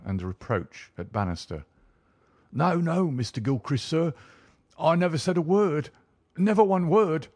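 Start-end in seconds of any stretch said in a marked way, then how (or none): 2.5-7.3 high-pitched pleading servant; crying out. A narrator's reading. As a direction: cry out in protest to the young master, pitch high. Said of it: "cried the servant".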